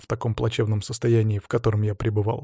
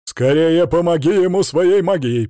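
louder, higher gruff push; growled urging; 5 semitones higher, 6 dB louder than usual. A narrator's reading. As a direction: bark at her to hurry. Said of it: "прорычал Свари".

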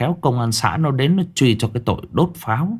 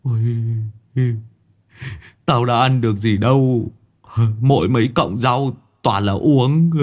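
bitter cursing; 2 semitones higher than usual. Acted. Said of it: "cay đắng chửi".

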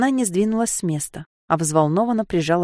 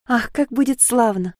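joyful chirping; 5 semitones higher than usual. Acted. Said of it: "радостно защебетала Софья".

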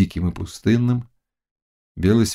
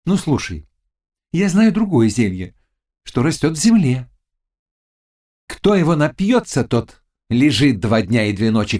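scheming witch; 4 semitones higher than usual. Acted. Witch offering a sleeping herb to the Cossack, high and sly. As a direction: lure them in with a dark offer.

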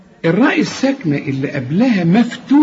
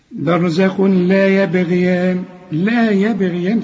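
slow chanted "برزخ لا" with no nasal sound; recitation without nasal sound; slower than usual. Shown as a demonstration. Teacher models the correct reading with no nasal sound. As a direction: chant it plainly into "لا". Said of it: "اللام لا تغن".

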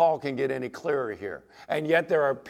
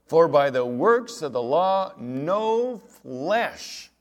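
forceful scripture reading; 2 semitones higher, 6 dB louder, much slower than usual. Acted. Preacher reads scripture with force.

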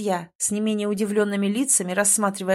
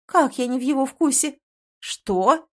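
louder, offended exclaimed questions; indignant; 5 semitones higher, 4 dB louder than usual. A narrator's reading. Heroine and girl exclaiming together, indignant. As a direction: cry out in affronted disbelief. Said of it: "интонация у нас у обеих была возмущённая".

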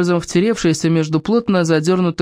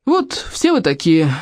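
offended suitor; slower than usual. Acted. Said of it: "вошёл в роль униженного оскорблённого".

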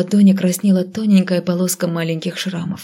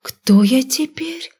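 slowly, higher, stunned; 6 semitones higher, much slower than usual. A narrator's reading. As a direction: ask it slowly in disbelief. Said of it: "медленно переспросила я".

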